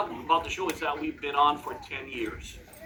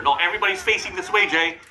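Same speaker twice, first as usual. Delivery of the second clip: louder, quick call across the room; calling out to Jay; 4 semitones higher, 5 dB louder than usual. Real, not acted. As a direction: hail Jay to turn him around.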